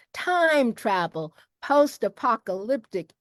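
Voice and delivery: measured, carefully phrased host's reading; formal announcement. Real, not acted. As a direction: read out the official welcome deliberately. Continues prepared genre list.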